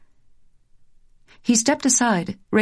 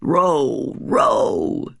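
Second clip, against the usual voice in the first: cried; 2 semitones lower than usual. Acted. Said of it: "he cried".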